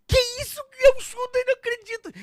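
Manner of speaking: very high, fast acted disbelief; incredulous Peter. Peter spotting Judas among the crowd, acted high-pitched disbelief. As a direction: squeal it in mock disbelief. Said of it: "Você imagina Pedro olhando pro Judas".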